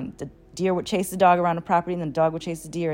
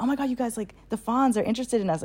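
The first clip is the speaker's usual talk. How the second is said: excited announcement; 5 semitones higher than usual. Retold or imitated. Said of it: "I'm telling everybody".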